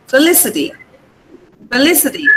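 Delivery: "felicity" stressed on the LI syllable; stress on Lee. Shown as a demonstration. Teacher modelling "felicity" for the class, LI stressed. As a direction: hit LI in "felicity", then let it fall. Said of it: "The stress is on Lee".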